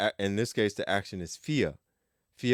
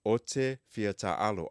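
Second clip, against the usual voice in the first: slowed-down teaching model; slow clear demo; slower than usual. Shown as a demonstration. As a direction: spell it out slowly for learners.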